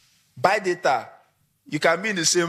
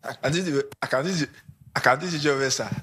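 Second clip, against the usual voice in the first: nervous job applicant; 3 semitones lower, faster than usual. Acted. Job seeker pleading with the boss, low and nervous. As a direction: stutter out the promise, scared. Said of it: "and you are shivering".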